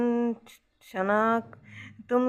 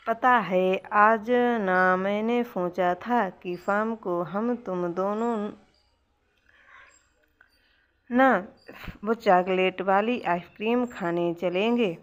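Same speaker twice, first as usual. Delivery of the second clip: mock sulk. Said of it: "थोड़ा रूठने का नाटक".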